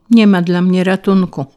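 plain reading voice

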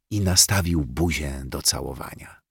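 ordinary delivery, nothing marked

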